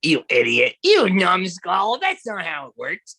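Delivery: hammed-up insult to the computer, slow on numbskull; mock-berate the internet like a bully; mock scolding.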